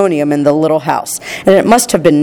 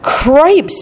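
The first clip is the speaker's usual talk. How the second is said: startled exclamation; 8 semitones higher than usual. A narrator's reading. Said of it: "said Mister Bucket".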